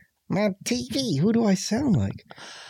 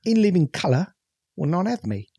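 cartoony Cockney. Shown as a demonstration. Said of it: "go full Cockney".

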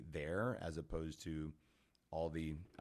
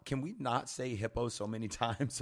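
higher, louder mock disbelief; retold incredulity; 7 semitones higher, 7 dB louder than usual. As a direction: balk loudly, playing up the exasperation. Stunned reaction to hippo news, retold.

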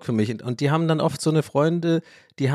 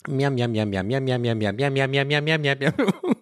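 steady lightly voiced munching chant; Homer munching noises. Podcaster redoing Homer's munching chant, lightly voiced. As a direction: repeat the miam chant, savouring it. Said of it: "Und dann kommt".

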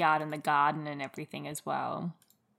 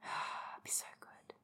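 sighed, breathy and slow; wistful whisper; 17 dB quieter than usual. Real, not acted. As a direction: breathe it like a daydream. Sighing about the dream.

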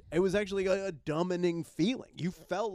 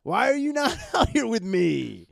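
whiny addict buddy; 10 semitones higher, 8 dB louder than usual. Retold or imitated. Acting out addict friend calling.

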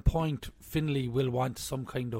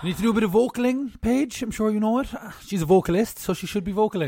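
playful teasing; 8 semitones higher, 5 dB louder than usual. Pretend. Teasing Paige directly.

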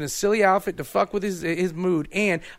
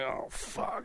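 whispered oh fuck; 14 dB quieter than usual. Retold or imitated. Caught pissing by cop.

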